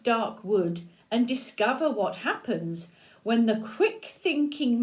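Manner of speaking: put-on steady, even read-aloud to a child; storybook reading. A narrator's reading. Grandmother reading the opening to a child, gently.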